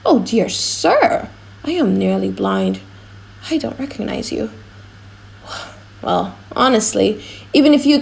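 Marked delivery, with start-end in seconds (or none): 0.1-4.5 put-on an old man apologising that he can't see; old father. Old father says he's blind.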